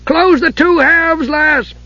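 high, slow, pressing dwarf's call; urgent dwarf. A narrator's reading. Dugan urging Usha to close the gem. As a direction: urge her on, jumping.

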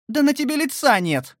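high, loud alarmed gasp; gasping cry. A narrator's reading. Aunt seeing his injured face, gasping loudly. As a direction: cry out in shock. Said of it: "охнула она".

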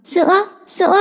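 put-on high, soft babbling baby; tiny baby calling for milk. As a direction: reach for the bottle like a toddler. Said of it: "với tay muốn chạm vào bình sữa".

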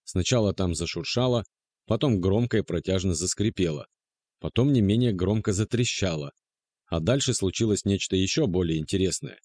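usual speaking voice

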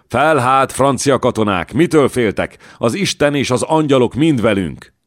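fervent war-cry to the troops; rallying cry. Acted. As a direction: rouse the whole army to charge. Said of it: "így kiáltott fel".

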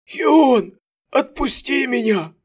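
high loud plea; desperate cry. A narrator's reading. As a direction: cry out his name. Prisoner cries out.

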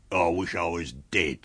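lightly voiced self-pitying tramp; a mild lament in a put-on tramp voice; miserable tramp. Tramp forced into service, lightly voiced misery.

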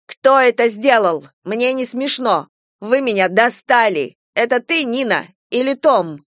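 loud, high furious tirade; hurt and enraged, she accuses her friends; angry accusation. Acted. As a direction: lash out at everyone in the room.

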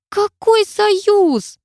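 hiss. A narrator's reading. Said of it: "прошипела я".

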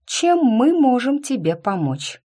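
high, slow, pointed offer of help; emphatic, menacing politeness; loud and threatening. A narrator's reading. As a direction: draw it out with a veiled threat. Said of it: "говорила громко, чтобы даже затуманенные страстью мозги".

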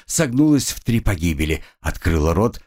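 usual speaking voice

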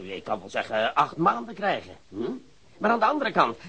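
ordinary delivery

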